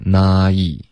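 "nai" gliding from 啊 to 一; full diphthong glide. Shown as a demonstration. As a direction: draw "nai" out from ah into ee. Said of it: "注意这个nai的双元音". (“nai”从啊滑到一)

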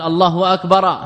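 faulty Aallahu akbar; meaning-changing slip. Shown as a demonstration. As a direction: stretch the start of الله into a question. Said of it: "أحال المعنى".

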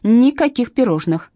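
loud, high, slow stern refusal; stern command. A narrator's reading. Zhanna bans the pastry until Katya talks, stern and loud. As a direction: lay down the law, slowly. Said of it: "сурово воскликнула Жанна".

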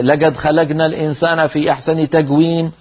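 قاف in "لقد" and "خلقنا" said as a hard g, leged khalagna; dialect g for qaf. Shown as a demonstration. Teacher demoing the wrong dialect g for students. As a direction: colloquial g sound where qaf belongs. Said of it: "هذا لا يصح".

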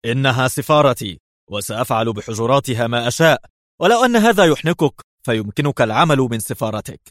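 curt rude answer; gruff. Acted. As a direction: put him in his place roughly. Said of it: "أجابه ليفي في غلظة".

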